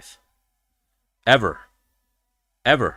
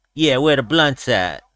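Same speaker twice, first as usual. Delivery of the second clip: slow, lightly imitated fighter's drawl; Nate Diaz; 3 semitones higher than usual. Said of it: "And he went".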